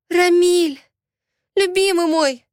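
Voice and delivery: calling out to a lover, overjoyed; excited cry. Acted. Heroine rushes to her beloved. (взволнованный возглас, выше и громче)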